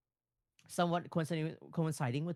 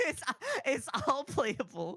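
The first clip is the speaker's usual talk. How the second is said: taunting; 11 semitones higher than usual. Acted. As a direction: rub it in teasingly. Taunting reprise.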